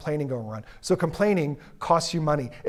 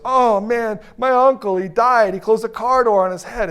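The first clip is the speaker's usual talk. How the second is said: mildly raised coworker; 4 semitones higher, 4 dB louder than usual. Retold or imitated. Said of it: "this guy comes up and goes".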